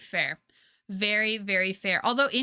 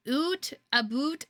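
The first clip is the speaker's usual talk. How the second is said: mock Canadian; 5 semitones higher, slower than usual. Shown as a demonstration. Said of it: "love the little Canadian accent".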